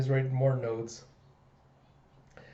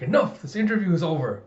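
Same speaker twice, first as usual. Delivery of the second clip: louder, firm interruption; stern cut-off; 3 semitones higher, 5 dB louder than usual. Acted. Father ends the child's interview, exasperated. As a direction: put a firm, loud stop to it.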